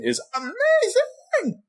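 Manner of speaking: high, slow, gushing praise; raving. Real, not acted. Host urging listeners to watch the show, slow high gushing. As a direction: gush over the show.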